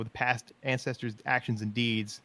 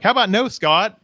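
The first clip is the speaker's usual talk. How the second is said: emphatic refusal; 8 semitones higher, 9 dB louder than usual. Retold or imitated. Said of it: "I'm like".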